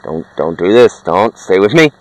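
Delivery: low, soft desperate begging; begging a dying friend not to go; quiet pleading. Acted. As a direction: plead under your breath as he slips away.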